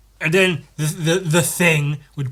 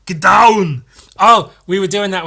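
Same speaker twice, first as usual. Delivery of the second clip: loud Austrian-accented bark; Arnold Schwarzenegger impression; 7 semitones higher, 11 dB louder than usual. Shown as a demonstration. Warming up the Arnold voice for viewers: loud Austrian bark. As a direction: bark it like an Austrian action hero. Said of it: "That's how I get into my Arnold voice".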